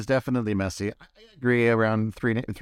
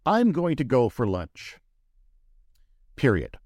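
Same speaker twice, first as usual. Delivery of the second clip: dictating; slower than usual. Shown as a demonstration. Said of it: "this is just me giving an example".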